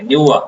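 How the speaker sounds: "نیوا" with the ra slurred into a w sound; wrong weak ra. Shown as a demonstration. Teacher imitating children who blur the ra. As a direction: say "نیوا" with a blurred ra. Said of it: "وہ نیوا کر لیتے ہیں".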